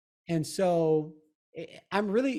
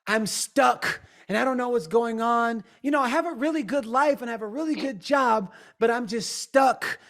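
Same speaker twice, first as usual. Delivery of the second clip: imitating a stuck client; 5 semitones higher than usual. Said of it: "and they'll say".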